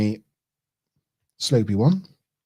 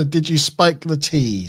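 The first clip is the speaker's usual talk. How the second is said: quoting Andrew; 4 semitones higher than usual. Retold or imitated. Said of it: "says Andrew".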